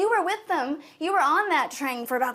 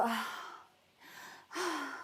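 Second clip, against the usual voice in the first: soft pretend moan; mock moan; 12 dB quieter than usual. Speaker joking about being vocal in bed, mock moaning. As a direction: breathe out a half-hearted "ah". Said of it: "be very vocal and go".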